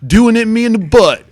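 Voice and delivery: high mock-swooning girls. Mocking the girls gushing over gray sweatpants, swooning high. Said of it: "all the girls are like".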